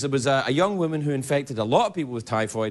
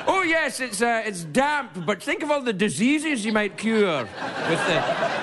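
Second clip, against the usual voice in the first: Scottish realtor; 6 semitones higher, slower than usual. Pretend. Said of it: "Realtors still try that in Scotland".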